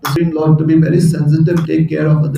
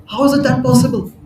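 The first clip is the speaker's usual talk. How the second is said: puzzled Lakshmi; 7 semitones higher than usual. Retold or imitated. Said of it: "she's like".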